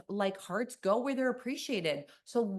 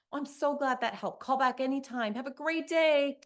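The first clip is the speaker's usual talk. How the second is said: bubbly, higher phone-helper voice; cheerful helper; 4 semitones higher than usual. Retold or imitated. Claudia greeting a caller at the help desk, bubbly. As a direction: gush over the caller like a dear friend. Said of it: "Claudia says".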